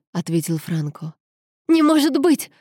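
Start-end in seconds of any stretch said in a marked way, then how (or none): 1.7-2.5 loud, high outburst of disbelief; higher, louder shocked exclamation; shocked cry. A narrator's reading. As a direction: cry out, refusing to believe it. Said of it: "выкрикнула Анжела".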